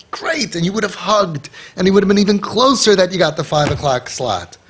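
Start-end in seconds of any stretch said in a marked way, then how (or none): 0.1-0.5 a high, bright great; cheery great. Shown as a demonstration. Father accepting the later slot, cheerfully high. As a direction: sell it with delight. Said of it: "you would have said".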